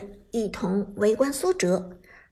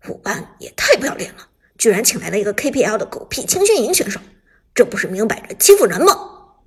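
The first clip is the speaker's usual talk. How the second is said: fast, loud angry rant; indignant rant; 3 semitones lower, 5 dB louder, faster than usual. Acted. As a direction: spit out the outrage. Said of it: "许旺气急败坏地说".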